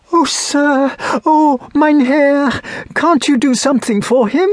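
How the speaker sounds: put-on high, imploring girl's voice; anguished high plea; desperate pleading. A narrator's reading. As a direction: beg a stranger for help, pitched far up. Girl begs stranger to save brother.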